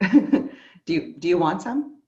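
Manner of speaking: loud, teasing imitation of the casual offer; playful mock offer. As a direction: echo the line back with a grin. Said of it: "That's actually my favorite part".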